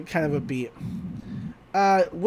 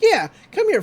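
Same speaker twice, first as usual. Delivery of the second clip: put-on old man voice; 13 semitones higher, 5 dB louder than usual. Voicing old man McGucket.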